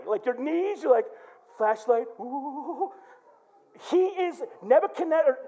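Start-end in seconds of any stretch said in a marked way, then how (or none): 2.2-2.9 long wavering ghostly ooh; drawn-out mock-scared ooh; eerie haunted-house ooh; spooky ooh. Acts out eerie scary scene.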